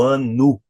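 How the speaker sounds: "wanna" ending in U, like "wannu"; stressed "ano" with final O turned to U; U-ending demo. Shown as a demonstration. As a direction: show the Portuguese-style "wan-nu". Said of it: "o som do O vira o som do U".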